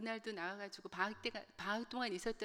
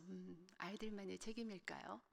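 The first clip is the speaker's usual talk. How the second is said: inner voice; 7 dB quieter than usual. Retold or imitated. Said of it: "속으로 그러죠".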